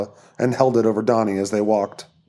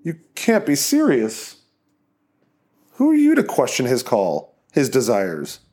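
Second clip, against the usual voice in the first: menacing cult leader; 2 semitones higher than usual. Acted. Donnie interrogating.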